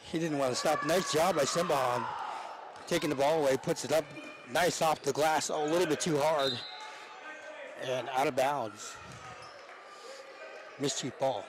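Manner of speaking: lively basketball commentary call; live play-by-play. Real, not acted. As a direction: call the game as it happens.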